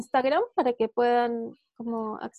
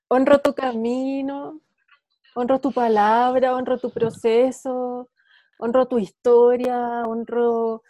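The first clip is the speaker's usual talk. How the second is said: sincere thanks. Real, not acted. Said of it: "solo ya me queda un suspiro".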